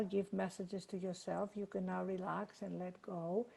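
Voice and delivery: gentle Zoom meditation lead; guided meditation. Acted. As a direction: guide the group into calm.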